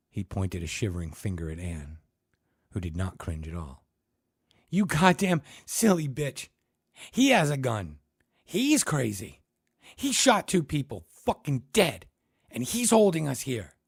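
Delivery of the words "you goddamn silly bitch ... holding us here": high loud frantic yell; hysterical. Acted. Terrified Ted screaming at Anne, high and loud. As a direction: scream it in terror.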